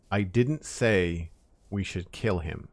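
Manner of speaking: slow read, leaning on "didn't"; stress on didn't. Shown as a demonstration. Streamer reading the sentence to chat, slow with weight on "didn't". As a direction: read it out slowly, pressing "didn't" a little. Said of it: "put the emphasis on a different word".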